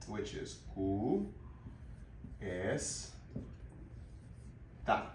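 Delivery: "cu", "es", "ta" spaced apart by long pauses; broken into syllables. Shown as a demonstration. Teacher breaking cuesta into syllables for learners. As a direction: pause between each syllable, slowly. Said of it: "let's move on to cuesta".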